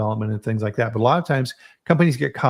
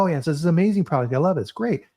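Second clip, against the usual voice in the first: gushing fake tester; 4 semitones higher, faster than usual. Mock consumer test dialogue.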